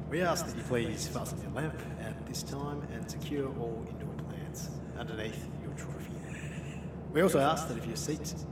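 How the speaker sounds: a light airline captain announcement; pilot voice. Pretend. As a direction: lightly play the captain on the intercom. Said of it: "Your best pilot voice".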